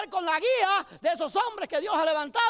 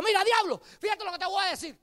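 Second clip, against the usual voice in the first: put-on child voice; 7 semitones higher than usual. Tired child confronting devil.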